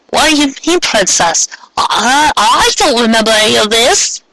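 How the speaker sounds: put-on high, bright young girl voice, bewildered; Molly's girlish voice. Confused girl questioning the strangers around her, high voice. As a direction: pitch way up as a startled girl.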